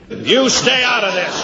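high-pitched, cross rebuke; irritated rebuke. Acted. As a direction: shut down an interruption, pitch jumping up. Snaps at man butting in.

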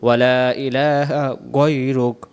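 গয়রুক with short o, no final a; careful গয়রুক; correct pronunciation. Shown as a demonstration. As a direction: end গয়রুক cleanly. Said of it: "এখানে গয়রুক পড়ব".

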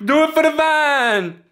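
meme quote. Pretend. Roommate joking about the vine plant, a squeaky meme voice.

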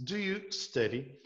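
"Do you study?" slowly, weight on "you"; teacher repeating the question slowly; slow English model. Shown as a demonstration. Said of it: "Quando você pergunta assim".

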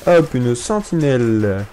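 very slow, stretched "sentinelle"; mock-solemn slow naming; drawn-out announcement. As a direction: drag each word out with a falling tune.

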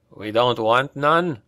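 P=A; laughing repeat. Acted. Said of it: "He laughed and nudged Pavel".

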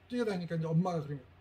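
ordinary talk

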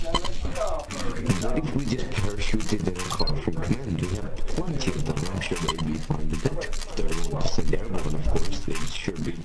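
eager soldier voice; in character. Acted. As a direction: play it as a keen soldier. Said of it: "sir, out of character".

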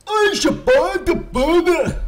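high, loud, drawn-out mock Scottish; mock Scottish accent. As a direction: holler it in a fake Scottish accent. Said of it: "I'm not Scottish".

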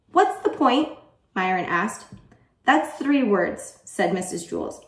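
put-on animated storytelling for children; story read-aloud. A narrator's reading. Teacher reading a favorite chapter to students, animated. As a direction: read it out clearly and expressively.

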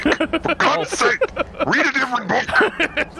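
high, drawn-out mock outrage; exasperated outburst. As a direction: wail it in comic exasperation. Same retort repeated, escalated.

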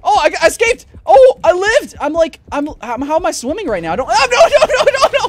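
very high, loud shrieks then relief; screaming panic. Real, not acted. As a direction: shriek through the attack. Shark attack, escape.

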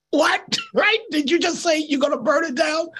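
mock the Exxon man's jaw-dropping disbelief; stunned disbelief. Exxon rep hears the lady threaten arson, shocked laughing squeak.

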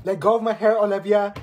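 loud pained yell. Acted. Student yelling at classmate pulling her hair. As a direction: shout at her to let go.

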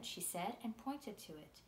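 put-on steady, gentle read-aloud of a children's novel; story narration. A narrator's reading. Author reading her book's first chapter to listeners, storytelling voice.

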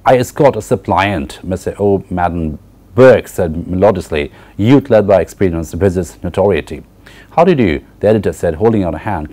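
reading the novel aloud, measured and even; story reading. Acted. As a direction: read the passage like a story to the class. Lecturer reads Ulysses aloud.

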